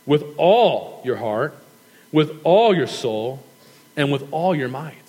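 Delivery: "all" drawn out and stressed every time, slow phrases. Shown as a demonstration. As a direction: lean on each "all" in the list. The emphasis there is on the word all.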